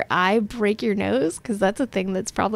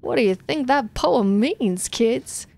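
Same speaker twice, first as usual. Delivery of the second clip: pompous politician. Acted. Governor addresses crowd.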